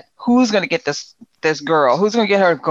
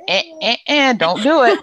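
higher, interrupting mock protest; mock cutting-in; 8 semitones higher than usual. Friend halting her nonprofit plan, mock protest. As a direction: imitate someone heading off a bad idea.

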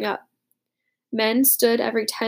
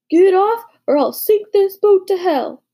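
higher, louder furious shout; 8 semitones higher, 6 dB louder than usual. A narrator's reading. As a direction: bellow at the deserters. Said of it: "he shouted".

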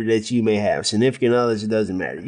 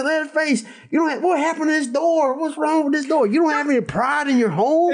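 much higher, put-on cook fussing over his door; indignant cook; 13 semitones higher than usual. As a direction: scold Leatherface like an old fussy husband. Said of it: "It's just the way he says it".

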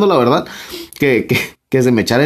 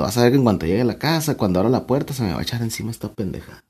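quick, softer muttered thought under the breath; fearful private thought, getting softer; inner thought; 6 dB quieter, faster than usual. Retold or imitated. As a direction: rush it like worried thinking, dropping away. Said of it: "y yo pensando".

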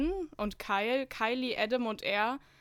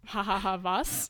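laughing; 4 dB louder than usual. Acted. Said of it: "Ich lachte nur".

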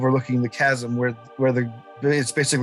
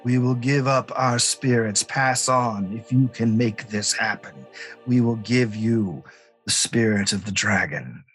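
dragon voice; 3 semitones lower than usual. Acted. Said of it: "the dragon's voice again says".

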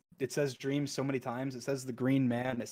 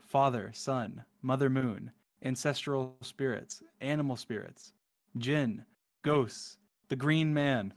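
poem reading. Acted. Gamer reading the End Poem to viewers, hushed and dreamy. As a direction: read it like a dreamy cosmic poem.

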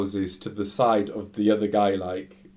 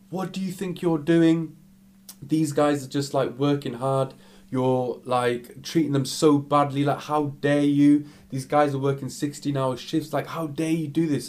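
higher-pitched mock telling-off; acted indignant outrage; 4 semitones higher than usual. Girl behind him tells off the abusive customer, acted indignation. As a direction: imitate a girl taking someone to task, indignantly.

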